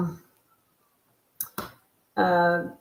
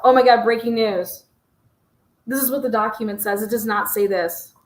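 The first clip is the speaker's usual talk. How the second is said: mock breaking news.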